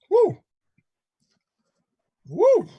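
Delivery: high falsetto woo; sarcastic high hoot; mock whoop. A host mocking freedom with a high woo.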